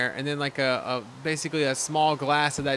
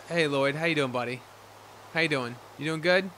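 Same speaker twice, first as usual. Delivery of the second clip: pet talk; 2 semitones lower, 5 dB quieter than usual. Real, not acted. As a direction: coo gently at the dog. Talking softly to pet Lloyd.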